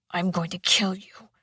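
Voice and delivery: menacing whispered threat; growled whisper. A narrator's reading. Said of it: "he growled".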